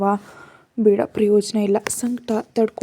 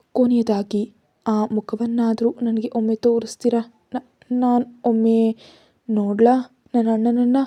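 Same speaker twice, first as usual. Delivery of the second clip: mild tearful plea, slowing as it breaks; sobbing plea. Acted. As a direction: beg to see her brother, a touch of tears. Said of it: "ಬಿಕ್ಕಿ ಬಿಕ್ಕಿ ಅಳ್ತಾ". (ಅಳುತ್ತಾ ಸೌಮ್ಯವಾಗಿ ಬೇಡುವ ಧ್ವನಿ)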